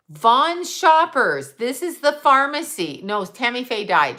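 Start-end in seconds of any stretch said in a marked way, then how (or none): 0.1-3.0 high, slow, sing-song store announcement; mock sweet intercom voice over the store speakers; mock intercom announcer. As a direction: ham up a pharmacy PA call. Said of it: "she's like, on the intercom".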